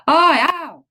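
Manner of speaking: loud high cries of pain; pained yelps. Acted. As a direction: yelp as if struck. Giant thrashing in nightmare.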